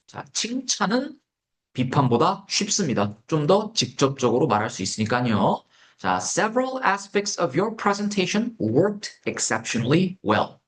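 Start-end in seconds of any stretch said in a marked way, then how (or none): 6.2-10.6 slow dictation. Shown as a demonstration. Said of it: "dictation example".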